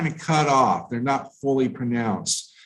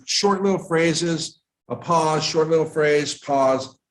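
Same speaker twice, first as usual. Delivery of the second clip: "short little phrase" as one chunk, then a brief break before "pause"; group "short little phrases" together, set "a pause" apart; chunked phrasing; 3 semitones higher than usual. Shown as a demonstration. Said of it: "kind of like that".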